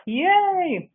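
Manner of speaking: excited cheer. Real, not acted. Cheering the audience on.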